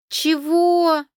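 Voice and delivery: high, outraged "what?"; indignant. A narrator's reading. Girl outraged at her cousin's claim, indignant. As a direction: bristle at the accusation. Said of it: "возмутилась".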